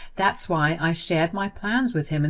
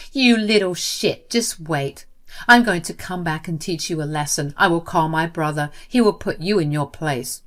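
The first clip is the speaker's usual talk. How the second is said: threatening. Acted. Sister threatening on phone.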